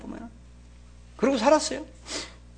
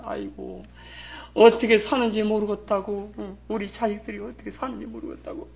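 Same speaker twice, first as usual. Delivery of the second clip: imitated fretting parent; 3 semitones higher, 5 dB quieter than usual. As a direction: act out a parent fretting over the children. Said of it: "이러고 앉아가지고 말이야".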